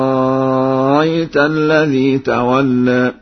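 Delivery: أفرأيت with the second hamza softened between hamza and vowel, slowly; Warsh eased hamza. Shown as a demonstration. Reciter demonstrating the eased hamza, slow recitation. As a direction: ease the hamza in أفرأيت, bayna bayna. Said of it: "وهكذا".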